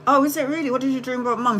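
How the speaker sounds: mock interest. Replying to her sister's dream, feigning bright interest. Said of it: "I was like".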